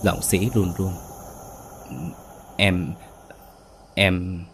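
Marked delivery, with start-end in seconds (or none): 2.6-4.4 lightly raised, accusing voice; a hint of a scorned wife's rage; mock furious rant. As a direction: spit the insults at him. Lan turns on Sĩ furiously.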